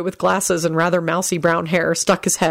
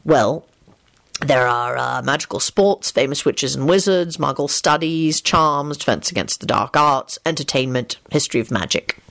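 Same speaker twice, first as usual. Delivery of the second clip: lower, hesitant man's list; thoughtful Lupin; 3 semitones lower than usual. Acted. Lupin lists game categories for Elizabeth, thoughtful. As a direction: recall each item in a low voice.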